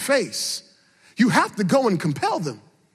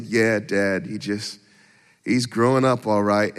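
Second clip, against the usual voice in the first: son's voice; 12 semitones lower, slower than usual. Retold or imitated. Son voiced in story.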